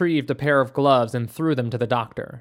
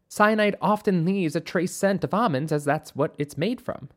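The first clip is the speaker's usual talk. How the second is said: slightly higher explaining voice; a hint of a higher-voiced doctor; lightly voiced doctor; 3 semitones higher than usual. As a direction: explain it as the expert, pitched up a little.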